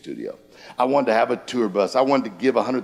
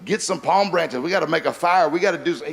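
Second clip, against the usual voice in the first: higher, panicky castaway pleading; freaking out; 6 semitones higher than usual. Retold or imitated. Stranded castaway begs his calm friend to act, panicky and higher. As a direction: sound like a stranded guy losing it. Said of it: "one of them was freaking out".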